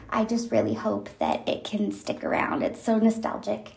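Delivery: talking while chewing gum. Real, not acted. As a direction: gum in the mouth while speaking. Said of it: "chewing my bubble gum".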